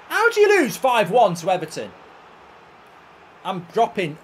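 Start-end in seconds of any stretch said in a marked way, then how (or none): 0.1-1.9 loud, high-pitched disbelief; real raised-voice exasperation; exasperated outburst. Real, not acted. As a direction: demand to know how this happened, loudly. Fuming at losing heavily.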